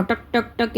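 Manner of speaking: spoken clicks in passing; imitated crackling. Shown as a demonstration. Teacher explains what crackling sounds like, imitated clicks. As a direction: lightly mimic something crackling. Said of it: "એવો અવાજ આવતો હોય".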